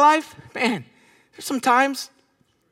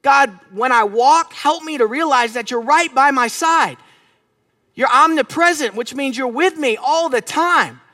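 slow, emphatic prayer, key words stretched; earnest prayer; 3 semitones higher, slower than usual. Shown as a demonstration. Preacher praying aloud to be more aware of God, earnest prayer. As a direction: pray it out in long, measured phrases. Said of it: "So my prayer right now".

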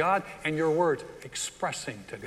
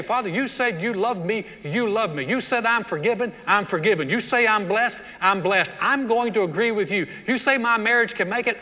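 louder, confident faith declaration; bold declaration; 4 semitones higher, 4 dB louder than usual. Shown as a demonstration. Preacher modeling a prayer to the congregation, bold and loud. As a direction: proclaim each promise back to God. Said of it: "You just say".

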